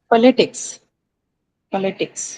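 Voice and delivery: politics with a clear open O first; "politics" opening on a strong O. Shown as a demonstration. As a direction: stress the POL in politics. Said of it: "It's O".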